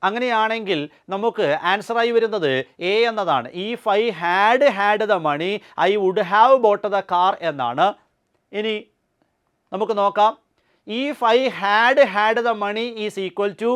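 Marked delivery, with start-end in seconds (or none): 3.7-7.3 slow dictation. Shown as a demonstration. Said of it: "teacher reads model sentence slowly". 10.9-13.7 slow dictation. Shown as a demonstration. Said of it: "teacher reads sentence slowly".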